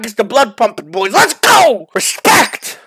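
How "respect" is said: shout. Real, not acted. Hyping after shot.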